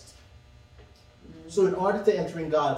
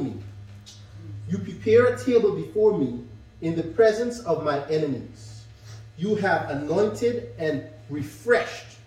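scripture reading. Acted. Reads Psalm aloud.

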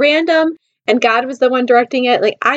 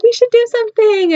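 high-pitched mimicry of her; mock flirty suggestion; 10 semitones higher than usual.

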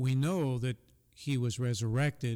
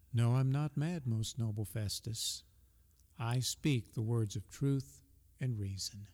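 quiet, calm reply falling softer. Retold or imitated. Paul answers the agitated governor calmly and softly. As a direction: answer gently, unhurried. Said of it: "very calmly and probably very softly responding".

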